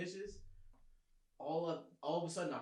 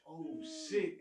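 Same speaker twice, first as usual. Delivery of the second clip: sharply higher yelp of alarm; startled realisation; 14 semitones higher, 4 dB louder than usual. Retold or imitated. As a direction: jolt awake and blurt it out. Caught asleep by mom.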